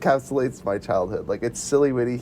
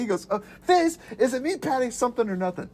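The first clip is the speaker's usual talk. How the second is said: high, goofy puzzled voice; 9 semitones higher than usual. Retold or imitated. Ed reasoning with the customer, high and goofy. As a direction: ask the riddle with dopey confidence. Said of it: "he's like".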